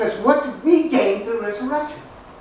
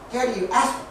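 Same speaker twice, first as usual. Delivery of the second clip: lightly imitated toddler barely able to talk; hint of a tiny child's halting speech; Lindsay; 5 dB quieter, much faster than usual. Two-year-old to dad at dinner, lightly imitated baby talk. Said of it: "Lindsay's just barely able to talk".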